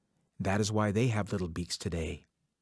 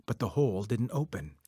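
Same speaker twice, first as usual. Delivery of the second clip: plain reading voice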